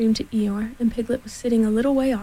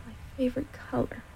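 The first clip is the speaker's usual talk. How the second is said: soft, wistful aside; murmured to himself; 2 semitones higher, 9 dB quieter than usual. A narrator's reading. Eeyore mourning his balloon's color, murmuring to himself. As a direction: speak softly, as if only to yourself. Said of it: "he murmured to himself".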